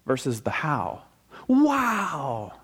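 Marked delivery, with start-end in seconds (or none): 1.5-2.5 high falling exclamation of wonder; acted wow. Preacher showing the congregation pure wonder, acted wow. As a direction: let out an awed wow, gliding down. Acting out the wow versus how.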